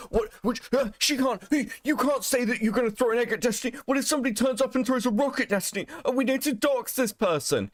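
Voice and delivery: fast, high mock fan outrage; hammed-up panicky fan, rattled off; mocking outraged fan. Streamer mocks Destiny fans, fast high mock outrage.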